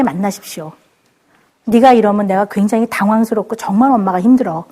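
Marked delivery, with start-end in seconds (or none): 1.6-4.6 lower, sincere, level-voiced telling of feelings; honest calm talk. Shown as a demonstration. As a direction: tell the child plainly how you feel. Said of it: "이렇게 정직하게 아이를 만나세요".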